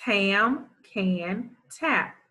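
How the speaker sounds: slow decoding read. Shown as a demonstration. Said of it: "Let's read".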